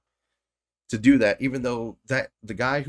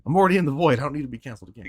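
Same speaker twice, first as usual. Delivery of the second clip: mock Blade quote; 4 semitones higher, 6 dB louder, much faster than usual. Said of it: "He said".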